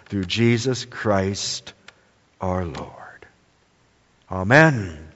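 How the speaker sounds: slow, reverent prayer reading. Acted. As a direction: pray it slowly and reverently. Reads a fourth-century prayer.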